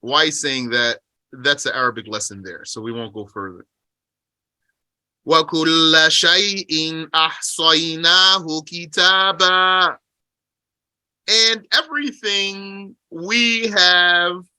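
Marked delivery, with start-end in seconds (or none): 5.2-10.0 measured chanted recitation of the verse; Quran recitation. Acted. Teacher reciting the verse to his class. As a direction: recite it like scripture.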